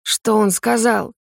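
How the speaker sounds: slow, hoarse croak after coughing. A narrator's reading. Shaman, coughing, asks what the spirit said, hoarse croak. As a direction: rasp it out exhausted. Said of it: "прохрипела".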